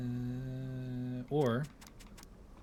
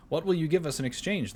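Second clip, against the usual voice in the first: sly higher goblin voice; 7 semitones higher, 6 dB louder than usual. Acted. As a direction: bargain like a crafty goblin. Crafty goblins bargaining.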